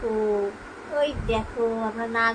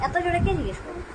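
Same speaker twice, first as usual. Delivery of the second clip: pitched up, a big loud question; high loud ask; 6 semitones higher, faster than usual. Shown as a demonstration. Mother showing baby the loud way to ask. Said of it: "আস্তে ধীরে সুস্থে জিজ্ঞেস করো".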